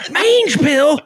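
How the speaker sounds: high, laughing disbelief; high laughing echo of the question; incredulous with laughter. Retold or imitated. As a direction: act shocked and crack up. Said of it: "He goes".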